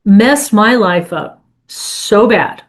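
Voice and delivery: desperate prayer, retold. Woman in her car telling God she is done, weary plea. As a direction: hand it over, worn out and done. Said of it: "I said".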